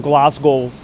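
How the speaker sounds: put-on stereotypical Glasgow Scottish accent. Streamer showing off a favorite voice, Scottish accent. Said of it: "the Scottish accent".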